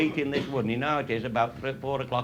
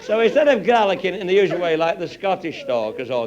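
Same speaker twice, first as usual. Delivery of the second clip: high, louder, laughing through words; laughing while telling; 6 semitones higher, 8 dB louder than usual. Real, not acted. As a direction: talk through the giggles.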